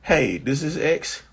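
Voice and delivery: high, mocking phone rant; acting flying monkey's call. Flying monkey calls the ex to insult her, high mocking voice. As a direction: sneer it high, like a prank call. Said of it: "you're acting and cracking me up".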